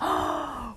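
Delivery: quick sharp gasp for breath; breathless little gasp. A narrator's reading. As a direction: catch a breath before shouting. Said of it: "喘气大叫说".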